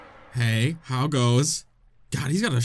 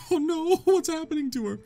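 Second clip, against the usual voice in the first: alarmed. Real, not acted. Midna collapsing.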